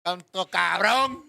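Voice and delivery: guilt-tripping mother, hammed up; dramatic mom. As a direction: pout like a wounded mother. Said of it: "she starts getting dramatic".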